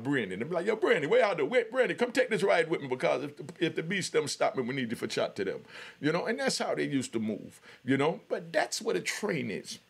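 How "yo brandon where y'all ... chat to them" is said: imitating friends' Jamaican patois call. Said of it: "But in Jamaica, it's called".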